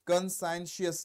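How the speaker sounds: "conscientious" in careful separate syllables; teacher sounding out "conscientious", a little slowly; pronunciation demo. Shown as a demonstration. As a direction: model "conscientious" clearly, ending in "shus". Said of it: "इसका pronunciation सुनो".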